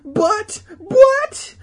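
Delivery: high, loud, exasperated stammer; hammed-up indignant squawk; sputtering. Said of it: "Todd sputtered".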